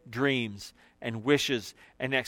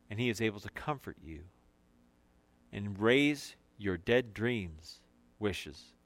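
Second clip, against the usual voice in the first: tender preaching; 3 semitones lower, 4 dB quieter than usual. Acted. Preacher comforts the grieving congregation, soft and tender. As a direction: reassure the grieving gently.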